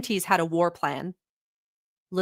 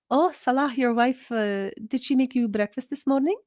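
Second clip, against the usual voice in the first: lightly voiced auntie, a touch higher, sweetly prying; nosy auntie voice; 4 semitones higher than usual. Auntie quizzing Salah about his wife, lightly mock-sweet. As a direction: fish for gossip in a sugary auntie tone. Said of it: "they would be like".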